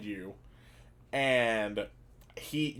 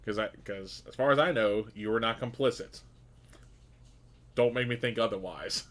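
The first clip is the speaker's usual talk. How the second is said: quiet seething anger. Acted. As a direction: menace kept under the breath. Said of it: "he is seething, but he is keeping his volume at a normal tone".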